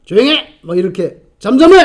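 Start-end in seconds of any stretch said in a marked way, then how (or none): 0.0-0.6 mock shushing yell; scolding. Bystanders rebuking the noisy beggar, scolding. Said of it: "쫑꼬를 주고요". 1.4-1.8 loud, high shushing yell; scolding. Retold or imitated. Bystanders silencing the blind beggar, loud scolding. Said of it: "쫑꼬를 주고요".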